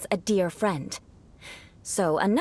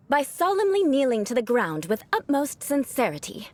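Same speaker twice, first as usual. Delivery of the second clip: haughty noble address; 3 semitones higher than usual. Shown as a demonstration. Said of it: "gave some real-life demonstrations".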